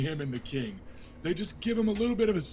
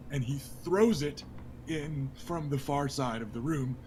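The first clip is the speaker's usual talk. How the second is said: ordinary delivery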